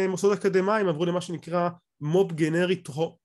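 usual speaking voice

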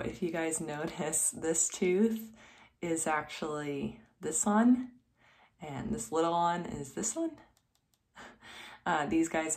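lips held back by fingers; talking with stretched lips; fingers pulling lips apart. Real, not acted. Seen 0: Fingers stretch lips to show teeth, 0.7s onward.

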